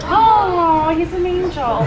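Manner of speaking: gushing. Real, not acted. Gushing over the coffee answer.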